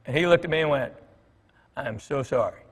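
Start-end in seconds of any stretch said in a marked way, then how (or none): 1.8-2.6 a hushed, softer sheepish sorry; sheepish apology. Retold or imitated. Fan caught overstaying at the table, softly sheepish. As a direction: drop the voice, caught out and embarrassed.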